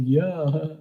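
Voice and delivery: high, drawn-out gloating cheer; mock delight. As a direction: imitate someone thrilled by their bank balance. Acts out delight at bank balance.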